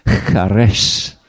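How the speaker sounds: "Charesh" said as kha-RESH, throaty first sound; Hebrew pronunciation. Shown as a demonstration. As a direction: demonstrate "Charesh" for listeners to repeat. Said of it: "you can try and say it".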